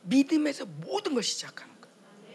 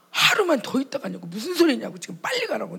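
louder, insistent scolding of husband; retold scolding; 2 semitones higher, 6 dB louder than usual. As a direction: push him to go now. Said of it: "내가 막 그랬어요". (남편을 다그치는 큰 목소리)

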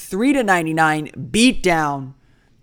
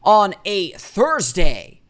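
radio voice; 3 semitones higher, 6 dB louder than usual. Acted. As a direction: read it like a radio host intro. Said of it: "I'm using a radio voice for some reason".

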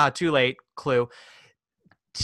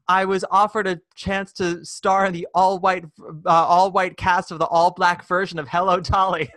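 mock grand Sylvia; 4 semitones higher, 4 dB louder than usual. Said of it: "And then she says".

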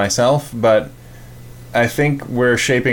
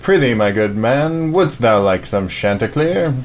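hammy stage actor; slower than usual. Pretend. Mock Renaissance salesman pitch.

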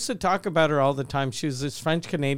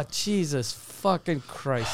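slow, soft disbelieving curse; quiet disbelief; 3 semitones lower, 6 dB quieter than usual. Real, not acted. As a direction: mutter it in disbelief. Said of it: "reacting to the story".

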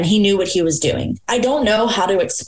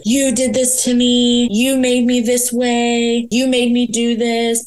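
higher and slow, mock tearful blame; imitating crying accusation; 5 semitones higher, slower than usual. Ex calling at midnight blaming her, retold tearfully. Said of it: "he's crying".

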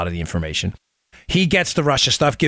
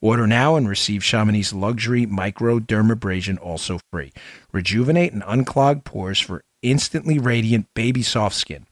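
infomercial. Acted. Sponsor read.

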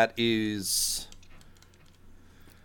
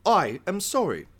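composed correction; 8 semitones higher than usual. Acted. Chef corrects his slip into Gungan.

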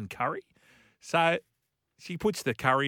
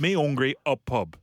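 put-on Wigan accent; 4 dB louder than usual. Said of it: "it's the Wigan accent".

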